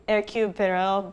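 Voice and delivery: "Hercule Poirot" with a rough French accent; attempted French accent. Shown as a demonstration. Struggling with the detective's name, attempted French accent. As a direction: try a French pronunciation, not expertly. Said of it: "my French accent is awful".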